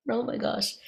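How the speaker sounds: high, mock-panicked cries of disbelief; panicked screaming. People queued behind her on the platform, in high mock panic. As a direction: imitate the frightened crowd behind, pitched high.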